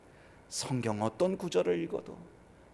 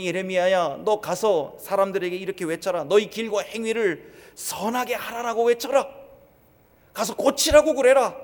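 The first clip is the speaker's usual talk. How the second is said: God's voice, building louder to a loud command; 3 semitones higher, 7 dB louder than usual. Acted. God sending Jeremiah to warn the people, commanding and rising louder. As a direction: give the order as if from heaven, rising to a cry.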